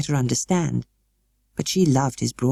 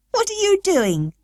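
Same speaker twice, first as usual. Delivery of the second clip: laughing. A narrator's reading. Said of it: "Colin began to laugh".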